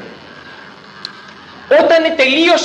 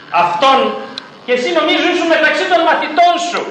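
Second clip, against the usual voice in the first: put-on accusing servant girl; 7 semitones higher, faster than usual. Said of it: "Του είχε πει μία δούλη".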